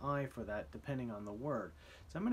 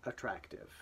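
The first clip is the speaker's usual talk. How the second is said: dictation repeat; 3 semitones lower than usual. Shown as a demonstration. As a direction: repeat the word calmly to close. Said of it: "here we go".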